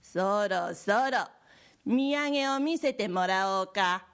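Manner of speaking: pushy demand. Acted. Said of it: "隣のじいさんが催促すると".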